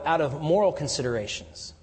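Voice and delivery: ordinary delivery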